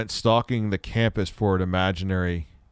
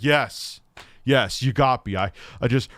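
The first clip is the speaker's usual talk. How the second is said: higher-pitched, mock-earnest sarcastic admission; sarcastic confession; 5 semitones higher than usual. Streamer imitating a sarcastic answer to a silly question, sarcastic. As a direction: play up a sarcastic confession, voice lifting as it goes. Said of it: "he actually answered it sarcastically".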